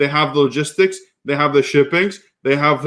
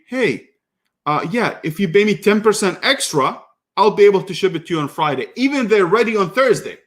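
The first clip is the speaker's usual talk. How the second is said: high, mocking imitation of the greedy supplier; mimicking the supplier's cheeky offer; 4 semitones higher than usual. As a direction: put on a smug seller's voice, pitched up.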